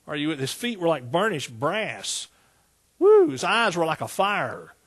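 driving, punched preacher's cadence; fervent preaching. Real, not acted. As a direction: build the vision phrase by phrase. Preaches the vision from Revelation.

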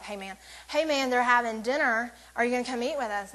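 lightly voiced laid-back guy inviting a friend; casual cruise guy. Cruise guy calling his friend to dinner, lightly voiced and casual. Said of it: "that's how they talk".

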